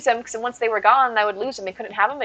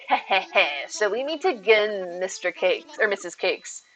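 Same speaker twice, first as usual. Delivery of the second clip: movie villain; 3 dB quieter, slower than usual. Pretend. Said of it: "you sound like the villain in a movie".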